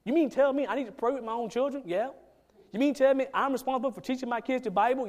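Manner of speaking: a hint of a startled believer; lightly voiced mock disbelief; uncomfortable churchgoer. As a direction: voice a churchgoer caught off guard. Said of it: "makes us uncomfortable".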